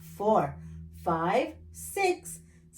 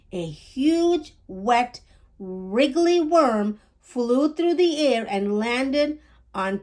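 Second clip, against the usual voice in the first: put-on gentle storytime reading to children; children's storybook read-aloud; story narration. A narrator's reading. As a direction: read it like a bedtime picture book.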